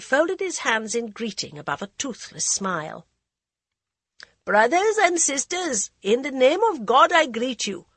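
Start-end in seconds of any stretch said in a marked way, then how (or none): 4.4-7.9 put-on high, loud earnest old man; high nervous voice. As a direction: greet the crowd, high and nervous. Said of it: "The high, nervous voice".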